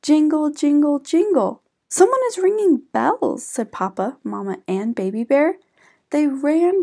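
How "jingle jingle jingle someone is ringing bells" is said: higher, louder sing-song jingle; bright chiming excitement, louder; excited jingle. Acted. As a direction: ring out the bells with delight. Bears hear bells.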